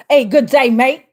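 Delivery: mock Aussie greeting; jokey Australian accent, breaking toward a laugh; playful Australian accent. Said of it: "could be seen in Australia".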